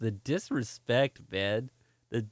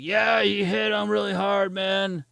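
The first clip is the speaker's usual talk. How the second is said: higher, put-on tattling voice; imitated accusing buddies; 5 semitones higher, slower than usual. Three buddies blame him to the cop, mock accusing whine. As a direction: mimic the drunk guy's friends piling on.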